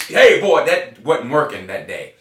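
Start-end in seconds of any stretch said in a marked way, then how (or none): 0.0-0.7 a loud mock call of the dad, higher pitched; dad's warning call. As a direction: call out like a stern dad, but lightly.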